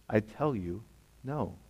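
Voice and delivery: "I tell you, no" dropped soft, with "no" almost breathed; quiet repeat. Shown as a demonstration. Preacher repeating Jesus' answer, soft and hushed. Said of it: "And again, he says these very words".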